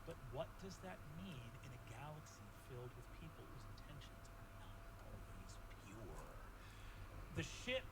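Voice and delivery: hushed then rising storytelling; game master narration. Acted. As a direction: narrate the journey for the players. GM narrates the ship's journey.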